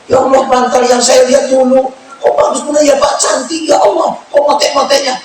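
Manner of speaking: high, delighted gasp over a gift; wife gushing over the pillow he bought, high and thrilled; excited wife. Retold or imitated. Husband voicing his delighted wife, squealing high.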